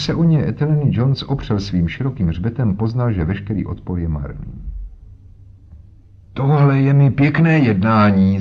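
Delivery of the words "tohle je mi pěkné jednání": put-on higher, louder indignant old man's outcry; old man protesting at being held, indignant cry; indignant exclamation. A narrator's reading. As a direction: cry out in outrage, banging a stick. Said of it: "zvolal a třískl holí".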